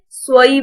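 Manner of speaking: स्वई said swai with a w glide; स्वई, lips rounded after s, not sai; स्वई pronounced swai. Shown as a demonstration. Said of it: "अब इसको सही नहीं बोलेंगे".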